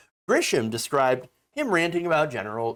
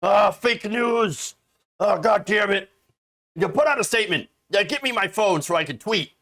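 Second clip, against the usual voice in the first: hammed-up raging Trump, louder and higher; mock Trump rant; 5 semitones higher, 3 dB louder than usual. A mocked Trump rages at a news report, mock fury. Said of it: "He'd be like".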